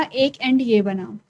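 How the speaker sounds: एक एंड ये बना slowed down, each word weighted; teacher slows एक एंड ये बना to stress it; slow emphatic repeat. Shown as a demonstration. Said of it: "repeats phrase for emphasis".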